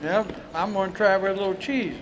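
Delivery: talking with mouth full. Real, not acted. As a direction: speak around a bite of food. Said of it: "don't talk with your mouth full".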